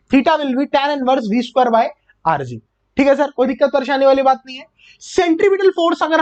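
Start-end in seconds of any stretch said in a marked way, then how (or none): 0.1-2.6 very slow, every word drawn out; slow dictation. Shown as a demonstration. Physics teacher repeating the formula for students to note down, very slowly. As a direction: dictate "theta will be tan inverse" slowly so students can write. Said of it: "हम लोग क्या बोलेंगे".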